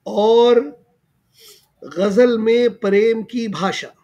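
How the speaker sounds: measured poetry recital with lifted phrase ends; mushaira-style verse delivery; verse recitation. Acted. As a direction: recite the couplets line by line, pausing for appreciation. Host recites his verse.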